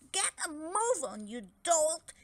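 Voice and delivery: high, loud rough order; angry snap. A narrator's reading. Franz kicking Dragodad to make him fly, angry snap. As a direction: bark at the dragon. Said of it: "snapped Franz".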